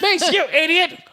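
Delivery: high, stretched-out mock outrage; exaggerated indignant quote; mock scolding. Repeats the acted scolding.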